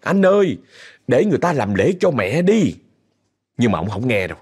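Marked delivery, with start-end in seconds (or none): 0.0-2.8 tearful pleading. Retold or imitated. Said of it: "vừa khóc vừa năn nỉ".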